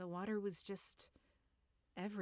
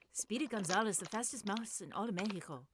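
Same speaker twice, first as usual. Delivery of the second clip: hammed-up Mexican cartoon accent, fast and louder; mock Speedy Gonzalez; 6 dB louder than usual. Narrator warming up with a mock Speedy Gonzalez Mexican accent. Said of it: "do a very terrible offensive stereotyped version".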